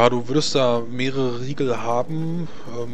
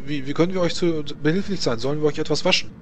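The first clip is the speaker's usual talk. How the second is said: higher, eager servant voice; a helpful servant, lightly voiced; 4 semitones higher than usual. Servant offers help to the visitor, higher eager voice.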